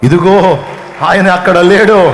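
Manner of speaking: loud, slow declaration; joyful proclamation. Acted. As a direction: proclaim the news as witness. Mary proclaims to apostles. (మరియ అపోస్తలులకు సాక్ష్యం చెబుతూ పెద్దగా)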